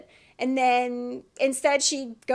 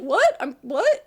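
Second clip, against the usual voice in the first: mock bafflement; 5 dB louder than usual. Retold man denying that he cries.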